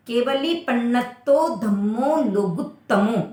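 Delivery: slow careful केवली पन्नत्तो धम्मो लोगुत्तमो ending on ओ; correct recitation. Shown as a demonstration. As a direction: end on लोगुत्तमो not लोगुत्तमा. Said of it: "आना चाहिए". (सही पाठ, लोगुत्तमो पर ओ साफ़)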